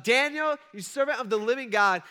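high, loud desperate call down into the den; yelling out. Retold or imitated. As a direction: call out his name in anguish. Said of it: "And so he yells out".

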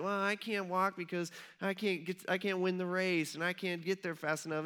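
lightly mimicked whining; mildly whiny, put-upon mock complaint; whiny excuses. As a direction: make feeble excuses with a slight whine. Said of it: "kinda whining".

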